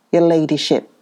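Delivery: mocking deference on your ladyship; satirical. A narrator's reading. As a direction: lay the irony on your ladyship. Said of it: "said the man, satirically".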